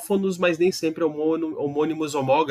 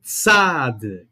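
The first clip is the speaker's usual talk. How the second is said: Tzad said louder for the class; loud classroom demo of Tzad; 3 semitones lower, 4 dB louder than usual. Shown as a demonstration. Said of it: "Fale alto agora".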